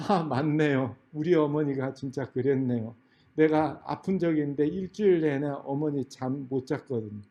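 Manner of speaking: soft, subdued recollection; acting out someone moved by memory; touched realisation. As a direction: admit it quietly, touched. Interviewees moved, recalling their mothers.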